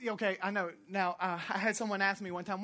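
normal talking voice

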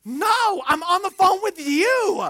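high, loud reply with a laugh; sheepish reply. Retold or imitated. Son answering his mother, laughing loud. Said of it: "I'm like".

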